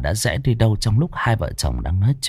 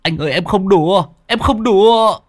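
high, louder pleading that builds; insistent pleading; 10 semitones higher, 4 dB louder than usual. A narrator's reading. Long pleads with Nam to believe him, high insistent cry. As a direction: insist desperately he is not joking. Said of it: "Long bực bội".

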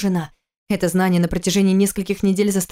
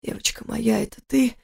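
заплетающимся языком; 3 semitones higher, 4 dB quieter than usual. Acted. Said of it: "спросил он заплетающимся языком".

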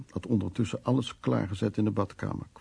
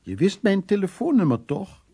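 aunt calling out; 5 dB louder than usual. Retold or imitated. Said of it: "En dan riep ze".

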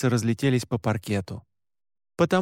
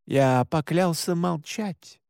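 cold; 3 semitones higher, slower than usual. Acted. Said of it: "неожиданно холодно ответил брат".

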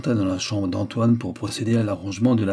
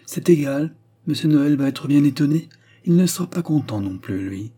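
put-on old mother's protest, noticeably louder; upset mother, louder; 5 semitones higher, 4 dB louder than usual. A narrator's reading. Mother objecting to her son's departure, louder and higher. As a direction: push back at him, louder and higher.

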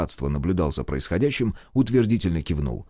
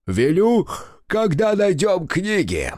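high, slow, drawn-out lazy reply; bored official brushing off the host; lazy, through a yawn; 11 semitones higher, 3 dB louder, slower than usual. Acted. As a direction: toss it off lazily, stifling a yawn. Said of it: "Подавив ленивый зевок".

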